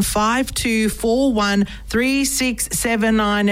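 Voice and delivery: phone number read out slowly, digit by digit; slow dictation. Shown as a demonstration. Radio host gives listeners the call-in number, slow and clear. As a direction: spell out the number carefully so listeners can note it. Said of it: "My number here again".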